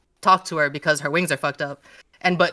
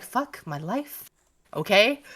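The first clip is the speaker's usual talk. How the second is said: quiet, slow, deflated resignation; defeated groan; 3 semitones higher, 3 dB quieter, slower than usual. Retold or imitated. Author retelling her reaction to the editor, defeated. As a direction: let the air out like you've given up.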